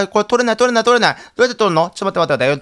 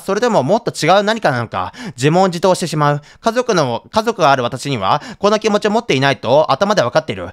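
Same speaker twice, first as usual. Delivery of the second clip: diary reading. Acted. Reads diary entry aloud.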